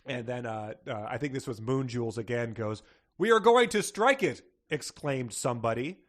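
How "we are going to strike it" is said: loud, high alarmed cry; hammed-up cry of alarm; mock panic. Reading out a panicked exclamation.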